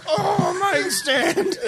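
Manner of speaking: high laughing squeak; voicing feet. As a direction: give the feet a silly voice. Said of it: "Your feet are like".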